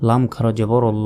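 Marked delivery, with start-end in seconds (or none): 1.1-1.1 ল with its vowel held long; one-alif stretch. Shown as a demonstration. Teacher spelling out the word, one-alif stretch on ল. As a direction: stretch the vowel of ল for about a second. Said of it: "এক আলিফ".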